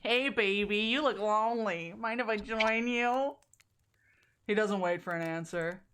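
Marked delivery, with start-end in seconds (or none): 0.0-3.4 nerdy voice. Shown as a demonstration. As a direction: play it as a dorky wannabe charmer. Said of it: "the nerdiest voice I can muster".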